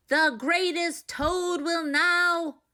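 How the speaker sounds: high, slow, drawn-out announcer call; strange far-off announcer. A narrator's reading. A strange voice announces Toad to the theater, slow and grand. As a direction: present Toad like a grand showman. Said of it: "Then the voice said".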